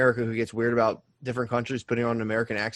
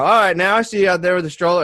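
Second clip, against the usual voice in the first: louder, higher imitation; mock official; 5 semitones higher, 5 dB louder than usual. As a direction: call it out in someone else's voice. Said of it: "They're like".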